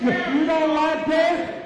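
sharp loud challenge; angry shout. Real, not acted. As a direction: shout it at the heckler. Confronting heckler, shout heard.

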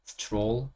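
stroller with the t turned to ch, "s-chroller". Shown as a demonstration. Teacher showing the American pronunciation, TR as CH. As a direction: say stroller softly, t before r like Korean 치읓. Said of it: "치읓으로 미국인들이 발음을".

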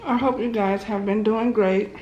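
talking with a mouthful of food; words round a big bite; mouth full. Real, not acted. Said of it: "I really hate to talk with my mouth so full".

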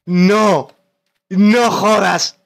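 loud anguished no; despairing shout. Real, not acted. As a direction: yell at the loss. Losing at the end.

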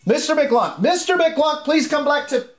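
slow, high flustered teacher. Acted. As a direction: plead like a frazzled teacher. GM voices teacher Mister Mac.

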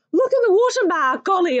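loud, high yelp to Ma; frightened child yelping for Ma; yelping cry. Acted. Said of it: "I yelped and I roared".

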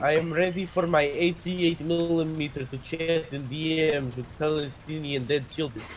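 distorted, crackly mic sound; bad microphone. Real, not acted. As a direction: voice through a terrible mic. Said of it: "Your microphone sounds terrible".

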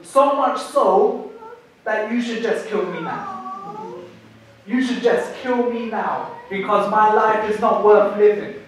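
a touch of anger, answering back; understated angry retort; mildly angry Jonah. Acted. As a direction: push back at God with restrained heat. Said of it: "he answers very aggressively, very angrily".

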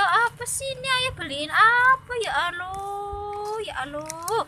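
high exasperated. Real, not acted.

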